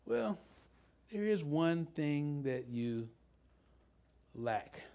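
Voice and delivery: gentle. Retold or imitated. Jesus answers gently, with love.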